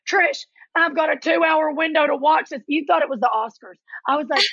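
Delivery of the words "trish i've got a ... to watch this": higher-pitched imitation of a harried brother; urgent brother. Brother begs his sister for draft time, mock-urgent. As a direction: put on a pleading brother, pitched up.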